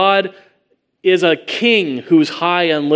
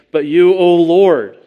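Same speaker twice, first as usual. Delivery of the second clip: slow, louder plea to the Lord; a prayerful cry; fervent cry; 3 semitones higher, 5 dB louder, slower than usual. Retold or imitated. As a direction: call out to God with longing. Quoting David's cry to God.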